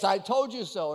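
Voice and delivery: a mildly mocking "I told you so", leaning on "told"; in-your-face sarcasm. People gloating over a friend's failure, lightly mocking. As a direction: rub the mistake in, lightly. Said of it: "like, in your face".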